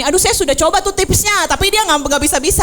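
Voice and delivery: mock complaining parent. Parent complaining the tips failed, mock whine. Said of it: "Jadi jangan gini".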